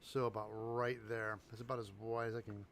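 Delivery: talking around a marker held in the mouth; words slurred past a pen between the teeth. Real, not acted. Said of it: "I'm gonna put the marker in my mouth".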